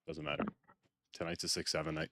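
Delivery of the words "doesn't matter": squeaky high little "doesn't matter"; a sudden high-pitched shrug; mock high dismissal. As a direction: brush it off in a silly high voice. Fake nonchalance over broken stream.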